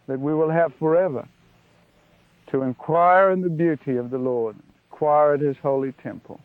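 earnest prayer addressed to God, swelling a little on each phrase; closing prayer. Acted. Preacher closing the study in prayer to God, reverent and earnest. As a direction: pray it out with reverence, building through the repeats.

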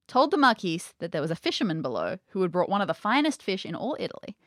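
measured storybook reading; story narration. A narrator's reading. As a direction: read the old tale with formal care.

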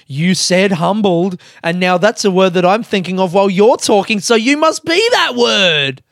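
high, loud mock admiration; mock gushing praise. Everyone praising the humbled person, sarcastic and gushing. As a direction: gush over them sarcastically. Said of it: "everyone goes".

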